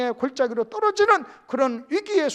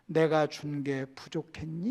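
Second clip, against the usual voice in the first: tender reproach; 6 semitones lower, 6 dB quieter, slower than usual. Acted. Soft slow question of God.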